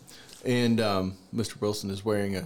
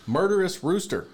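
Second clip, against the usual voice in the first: loud, high punchline delivery; dramatic emphasis; 8 semitones higher, 4 dB louder than usual. Real, not acted. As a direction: announce it with drama. Dramatic punchline of rooster story.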